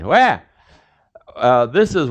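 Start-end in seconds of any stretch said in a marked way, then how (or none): 0.0-0.4 shouted Wah. Shown as a demonstration. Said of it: "look how your vocabulary is expanded".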